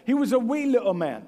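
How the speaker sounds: lightly put-on British lilt; mock British accent on a nursery-song line. Preacher recalls Bible school story of Zacchaeus, playful British accent. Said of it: "do it in a British accent".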